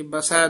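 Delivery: ਬਸੈ ending in an open ai vowel; ਬਸੈ said ba-sai. Shown as a demonstration. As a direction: open the last vowel of ਬਸੈ, not a closed e. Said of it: "ਦਲਾਵਾਂ ਨਾਲ ਉਚਾਰਨ ਕਰਨਾ".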